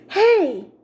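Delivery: high mimicked "hey" coming back; echoed call. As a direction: copy the call like an echo. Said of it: "come back from the parking lot".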